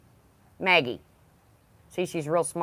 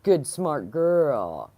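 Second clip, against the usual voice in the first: slow praise; much slower than usual. Real, not acted. Praising the dog.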